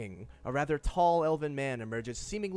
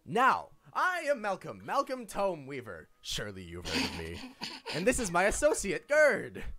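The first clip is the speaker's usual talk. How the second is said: Malcolm voice; 3 semitones higher than usual. Acted. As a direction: present yourself and your associate proudly. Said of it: "I hate that you do that voice".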